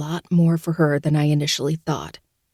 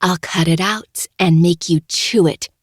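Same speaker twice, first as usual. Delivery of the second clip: loud, menacing threat; threatening; 4 dB louder than usual. Acted. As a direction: threaten her with relish.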